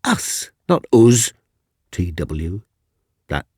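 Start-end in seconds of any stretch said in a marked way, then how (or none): 0.0-1.3 first "us" plummy RP, second "us" mocked as northern /ʊz/; the teacher contrasts posh and Yorkshire "us"; correcting pronunciation. Teacher correcting the pupil's Yorkshire vowel. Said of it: "We say".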